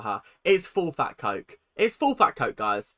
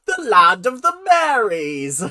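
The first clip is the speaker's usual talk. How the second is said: laughing through the words, loud and high; giggling at her own joke; 8 semitones higher, 11 dB louder, slower than usual. Real, not acted. Amused by the state name, laughing. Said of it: "It's hysterical to me".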